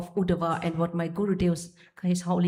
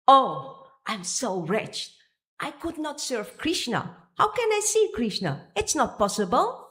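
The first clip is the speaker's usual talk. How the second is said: a devotee's wretched cry, rising high; anguished lament; 4 semitones higher than usual. Acted. Devotee lamenting separation from Krishna, anguished and high. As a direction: plead in despair at being unworthy.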